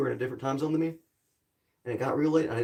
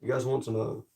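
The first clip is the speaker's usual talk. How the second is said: commercial narrator voice; 3 semitones lower than usual. Pretend. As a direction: pitch it like a breakfast commercial. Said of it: "I sound like I'm gonna narrate a commercial".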